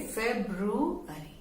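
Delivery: फेब्रुअरी with elongated syllables; long February. Shown as a demonstration. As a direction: stretch फेब्रुअरी, don't shorten it like फरवरी. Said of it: "थोड़ा लंबा से".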